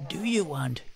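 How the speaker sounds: slowly. Acted. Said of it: "she asked slowly".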